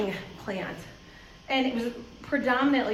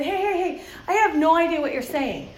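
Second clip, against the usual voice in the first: laughing interruption; 3 semitones higher than usual. Retold or imitated. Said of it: "I finally said".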